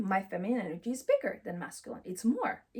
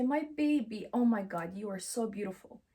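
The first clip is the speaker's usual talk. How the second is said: tender loving parent; 2 semitones lower than usual. Acted. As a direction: coo it like a proud mother to her baby.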